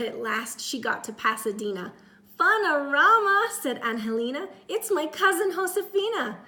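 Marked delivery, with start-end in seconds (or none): 2.4-3.5 high, loud squeal of joy; excited. Acted. Cousin greets excitedly. 4.7-6.4 high, loud squeal of joy; excited. Acted. Cousin greets excitedly.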